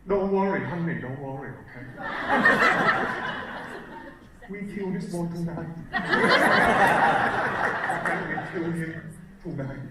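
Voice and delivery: put-on lightly accented dad reassuring mum; a hint of a father's Vietnamese accent, calm and casual; imitating dad's Vietnamese accent. Vietnamese dad calmly telling mum the plan, lightly accented. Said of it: "My dad's probably saying something like this".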